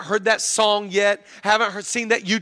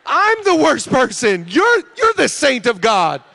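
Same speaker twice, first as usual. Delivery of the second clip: dramatic self-reproach; 3 semitones higher, 4 dB louder, slower than usual. Acted. Husband realizing his wife raises the kids, dramatic self-reproach. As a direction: confess it slowly, hammed-up.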